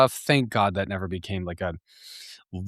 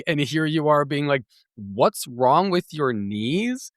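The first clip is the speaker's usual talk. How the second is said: higher-pitched exasperated tirade; indignant rant; 6 semitones higher than usual. Retold or imitated. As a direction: vent at him for missing all your effort. Ranting at the guy's reply.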